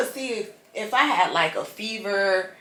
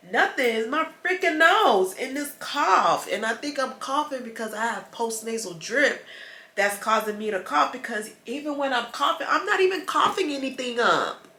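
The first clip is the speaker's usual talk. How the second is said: frustrated; 5 semitones higher than usual. Real, not acted. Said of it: "now I'm getting frustrated".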